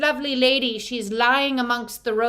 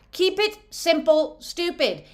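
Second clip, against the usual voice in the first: mock teasing; 5 semitones higher than usual. Shown as a demonstration. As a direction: keep it simple, stupid, in a higher, teasing put-on voice. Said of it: "It said kiss".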